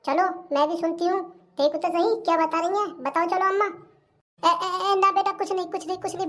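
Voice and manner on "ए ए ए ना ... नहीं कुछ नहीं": stammered, hasty cover-up; flustered denial. Acted. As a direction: stumble into denying there is any secret. Caught about to tell a secret.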